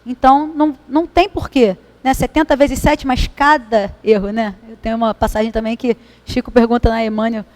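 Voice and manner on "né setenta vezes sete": ordinary talk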